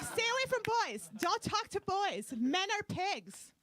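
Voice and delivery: high, slowing mock dad lecture; strict father. Comic imitating her father warning daughters about boys, high and slow. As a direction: imitate Dad laying down the rules, word by word.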